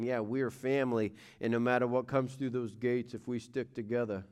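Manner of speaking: a light, hammed-up Italian accent on a movie line. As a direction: toss off the quote in a bad Italian accent. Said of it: "Bad movie quote, and I did it with some Italian accent".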